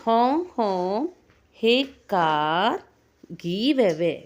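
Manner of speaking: a lightly voiced honking bus. Teacher voicing the bus for a child. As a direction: honk then demand the way. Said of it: "bus എന്ത് പറഞ്ഞു?".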